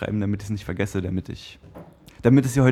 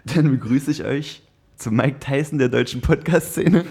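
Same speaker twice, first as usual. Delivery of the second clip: announcer; slower than usual. Acted. Podcast intro announcement.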